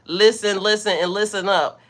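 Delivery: loud commanding call to listen; a light booming command from above; voice of God. Retold or imitated. God telling the people to listen, mildly commanding. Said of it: "the ultimate God saying".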